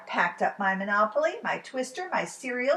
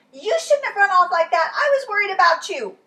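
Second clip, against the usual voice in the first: louder, higher relieved scolding; worried father; 10 semitones higher, 12 dB louder, faster than usual. Acted. Father found runaway son.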